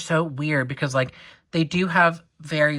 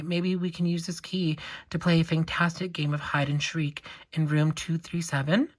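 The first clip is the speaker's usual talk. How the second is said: put-on British accent. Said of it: "I don't know why I'm making them British".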